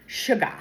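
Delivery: "sugar" said as "shu-gah", final r dropped; imitated cute accent. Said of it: "She always says".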